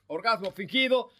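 Orgasmo with every letter clearly spoken; said in full. Shown as a demonstration. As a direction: pronounce Orgasmo with all its letters. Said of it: "Con todas sus letras".

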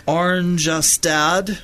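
Oranjestad sounded out slowly, syllable by syllable; careful pronunciation attempt. Real, not acted. Host attempting a Dutch town's name on air, careful pronunciation. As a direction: try out Oranjestad slowly, as an unfamiliar word. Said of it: "let's see if I can pronounce this".

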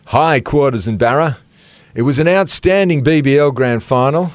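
measured, deliberate news-style read; news reader voice. Pretend. Co-host reading a listener's email on air, news reader voice. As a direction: read it out like a news bulletin, lightly put on. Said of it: "In my best news reader voice".

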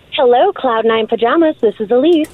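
cheery customer-service greeting; bright receptionist phone voice. Shown as a demonstration. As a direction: answer the phone like a chipper receptionist. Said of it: "now let's hear your work voice".

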